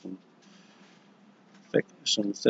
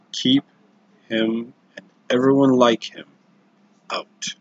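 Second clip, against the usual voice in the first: lord's stern command. Acted. Lord's command ending in whisper.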